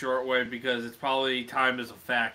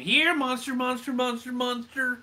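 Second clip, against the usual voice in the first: mock monster call; 11 semitones higher than usual.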